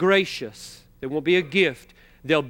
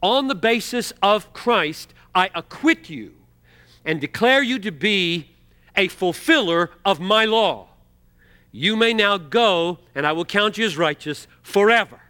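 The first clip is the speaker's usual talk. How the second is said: judge's verdict; 2 semitones higher, 3 dB louder than usual. Retold or imitated. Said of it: "the judge says".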